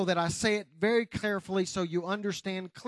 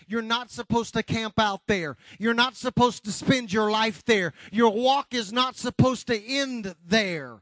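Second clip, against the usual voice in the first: emphatic preacher's delivery; forceful preaching; 3 semitones higher, 4 dB louder than usual. Real, not acted. Preacher urging congregation past temporary obstacles, forceful preaching. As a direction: drive each phrase home to the congregation.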